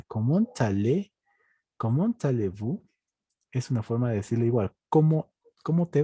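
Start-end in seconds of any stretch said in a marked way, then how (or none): 0.0-2.8 "allez" said "alé", with silent Z. Shown as a demonstration. Teacher shows the EZ rule, "allez" without the Z. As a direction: end "allez" on the E in "comment allez-vous". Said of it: "la E se pronuncia".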